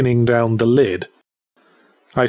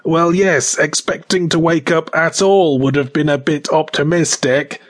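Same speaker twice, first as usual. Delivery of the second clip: a higher, sardonic reply; dry retort; 4 semitones higher than usual. Acted. Dead man answering the corpse, dry sarcasm. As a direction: toss back a wry correction.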